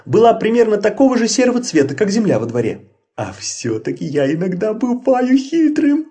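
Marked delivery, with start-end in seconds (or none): 3.2-6.1 high gleeful character voice; proud of his own trick; pleased. A narrator's reading. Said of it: "обрадовался Людвиг". (радостно, с гордостью)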